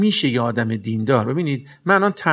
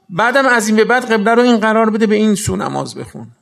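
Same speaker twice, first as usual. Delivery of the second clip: higher, louder divine command; booming command; 6 semitones higher, 7 dB louder than usual. Acted. Preacher voicing God to the Prophet, booming command. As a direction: proclaim it as God's order.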